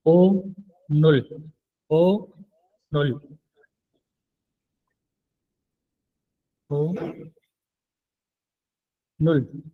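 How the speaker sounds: ओ and नुल said apart, repeated slowly; syllable by syllable. Shown as a demonstration. Korean teacher drilling ओ नुल for students. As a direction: break ओ नुल into two slow syllables. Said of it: "Korean ज़ुबान में बोलते हैं".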